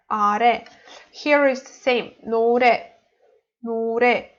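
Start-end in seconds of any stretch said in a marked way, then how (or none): 0.1-0.6 "are" as a-RE, stress on re; stress on last syllable. Shown as a demonstration. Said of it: "the stress is for re". 2.3-4.3 "노래" as no-RE, weight on 래; stress on final syllable. Shown as a demonstration. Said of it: "For the stress is for re".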